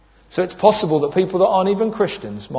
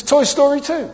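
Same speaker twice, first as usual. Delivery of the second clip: put-on child voice; 8 semitones higher than usual. Son answers matter-of-factly.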